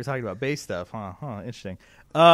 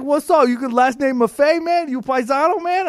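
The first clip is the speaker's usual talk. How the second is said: higher, louder, chummy New York guy voice; imitating the rep's voice; 9 semitones higher, 7 dB louder than usual. Salesman calling a customer, higher louder guy voice. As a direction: play the pushy sales rep, up and loud. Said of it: "You do that voice perfectly".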